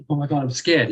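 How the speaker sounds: gasped imitation of a frightened victim; gasp, then play at being scared; mock scared. Imitating the victim the thugs wanted, mock scared. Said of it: "They wanted some".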